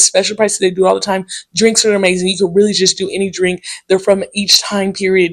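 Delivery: imitating chatty regular. Regular explains menu, voiced.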